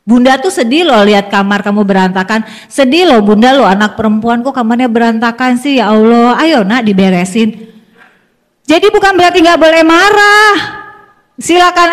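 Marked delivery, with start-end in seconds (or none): 0.1-7.7 softly sad, coaxing; soft sad appeal. Shown as a demonstration. Mother gently asking daughter to tidy the room. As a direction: lower gentle disappointment. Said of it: "memberikan kita rasa kita".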